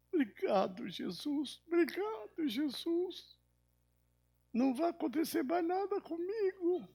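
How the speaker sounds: put-on very high, thin child voice; imitated little girl. Forgiven granddaughter thanking Jesus, imitated tiny high voice. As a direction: squeak out relieved thanks like a small child. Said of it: "Uma criança, pequenininha".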